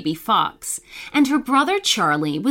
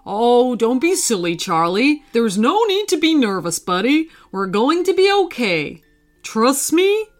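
consoling father; 3 semitones higher than usual. A narrator's reading. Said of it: "consoling his son".

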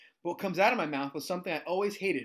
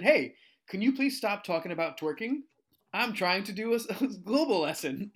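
louder, higher mock reprimand; teacher scolding; 5 semitones higher, 4 dB louder than usual. Teacher turns from board to student, mock scolding. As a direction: act out an earnest telling-off.

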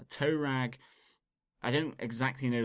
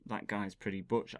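sarcastic. Shown as a demonstration. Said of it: "can be used quite sarcastically".

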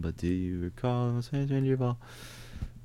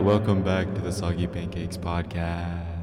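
digital echo; 4 semitones lower than usual. Real, not acted. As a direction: voice with a heavy echo. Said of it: "We have this echo effect".

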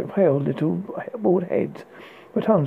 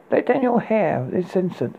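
impatient hiss; 4 semitones higher than usual. Acted. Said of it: "he hissed, impatient".

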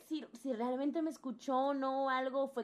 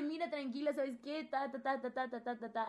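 reassuring; 3 semitones higher, 4 dB quieter than usual. Retold or imitated. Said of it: "Y me dice".

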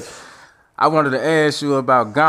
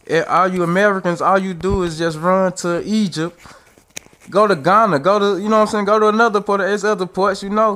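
put-on higher, scolding African accent; 7 semitones higher than usual. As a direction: mimic an African commenter's accent. Commenters from Africa scolding Americans.

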